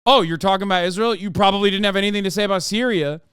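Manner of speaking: snide fast imitation of online critics; sarcastic mock gotcha. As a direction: rattle it off like a smug commenter.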